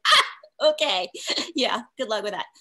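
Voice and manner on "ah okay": ah okay. Retold or imitated. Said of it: "And I'm like".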